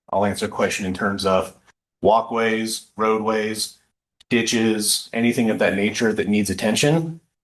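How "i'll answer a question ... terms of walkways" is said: plain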